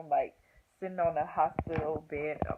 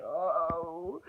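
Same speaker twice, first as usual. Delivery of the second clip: long mock moan of pain; imitated labor moan. Replying to the triage lady, imitated pained moan. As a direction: re-enact moaning through a contraction. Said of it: "And this is my face".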